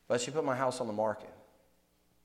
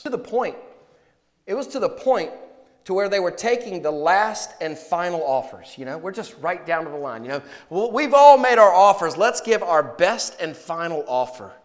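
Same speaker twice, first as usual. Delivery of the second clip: louder, higher build to the final offers; excited telling; 4 semitones higher, 9 dB louder than usual. Retold or imitated. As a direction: push the story to its peak. Climax of the tenant story.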